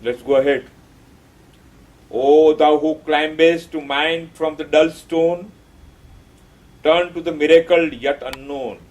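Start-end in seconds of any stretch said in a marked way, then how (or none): 2.1-8.8 poem recitation. Shown as a demonstration. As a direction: intone the line like a mantra. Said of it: "recites the poem line".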